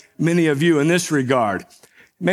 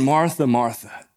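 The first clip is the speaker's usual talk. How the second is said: gentle and caring; 4 semitones lower than usual. Shown as a demonstration. Jesus soothing upset Martha, gently. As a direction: call her name twice with closeness. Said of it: "he is being gentle and caring with her".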